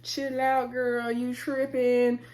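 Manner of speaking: mock reassuring friends; coaxing calm-down. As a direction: settle her down gently. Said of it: "trying to ... calm her down".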